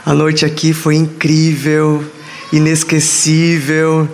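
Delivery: worn-out, hoarse, strained voice. Real, not acted. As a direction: speak through a lost voice. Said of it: "Tô sem voz".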